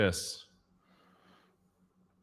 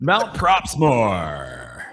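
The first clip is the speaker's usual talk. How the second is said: very slow dramatic echoing name; soundboard echo; 4 dB louder, much slower than usual. Shown as a demonstration. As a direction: stretch it out with big echo. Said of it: "Say that with the soundboard".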